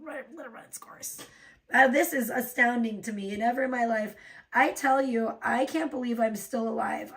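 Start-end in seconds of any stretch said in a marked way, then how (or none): 0.0-1.2 mocking quote. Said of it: "It's just".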